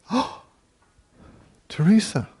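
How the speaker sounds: mock-scandalized gasp, then high, loud reproach; shocked nun. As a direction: act out a scandalized nun scolding. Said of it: "looked at Teresa and just went".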